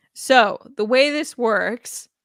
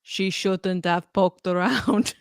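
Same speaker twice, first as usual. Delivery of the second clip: put-on terrible Arnold accent; slower than usual. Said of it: "I have a terrible Arnold accent".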